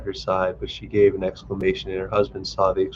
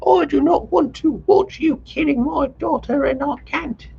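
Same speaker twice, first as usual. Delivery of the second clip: high, reproachful lament; distraught mother. A narrator's reading. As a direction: refuse in despair. Mother refuses to watch.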